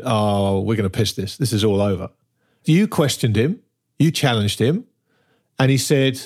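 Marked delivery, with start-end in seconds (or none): 0.0-2.1 mock cocky boast. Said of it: "coming in dancing and screaming and going".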